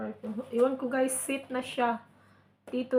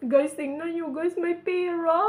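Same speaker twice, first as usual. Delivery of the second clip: surprised; 6 semitones higher, 5 dB louder than usual. Real, not acted. Discovers cash inside gift.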